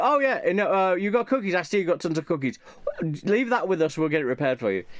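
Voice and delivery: lightly hammed-up crazy boss reassuring; unhinged manager. Manager reassures the customer about cookies, lightly hammed-up overeager voice.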